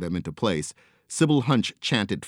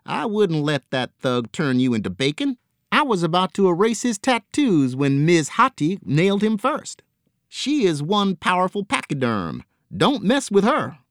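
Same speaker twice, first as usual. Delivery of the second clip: pirate voice; 11 semitones higher, 5 dB louder than usual. Acted. Angel voiced boasting of Hati.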